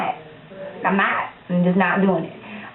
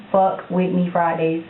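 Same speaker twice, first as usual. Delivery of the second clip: slower, every word of "Fuck With Me Fridays" spelled out clearly; careful correction. Real, not acted. Correcting herself to viewers, careful and deliberate. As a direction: fix the slip, saying each word. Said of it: "I'm country, y'all".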